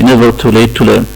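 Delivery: never too late to learn said very slowly; quoting a proverb. Shown as a demonstration. Teacher quotes an English proverb to students, very slow. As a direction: spell out the proverb slowly for emphasis. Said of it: "والمثل الانجليزي بيقول ايه".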